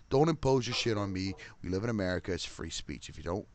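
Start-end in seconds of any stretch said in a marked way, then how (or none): 0.1-1.3 says impose firmly after the slip; corrected word impose. Real, not acted. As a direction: correct yourself and land on impose. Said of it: "Sorry, impose".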